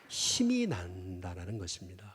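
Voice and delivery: soft hushed whisper; 속삭이듯 조용히. Acted. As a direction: breathe it as a quiet secret. Preacher drops to a hush.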